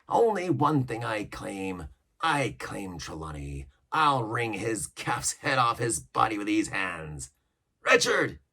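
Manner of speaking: slow menacing pirate voice; pirate cook threatening. Acted. Cook claiming the squire, slow menacing voice. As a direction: savour the threat.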